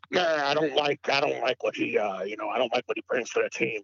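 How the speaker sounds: lightly voiced grumbling old-head radio caller; curmudgeon voice. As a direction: play a hint of a curmudgeon calling in. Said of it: "that's my curmudgeon voice".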